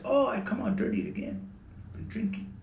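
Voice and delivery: lightly voiced high-toned friend; a hint of the eccentric high voice; Moody's high tone. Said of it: "And a very high tone".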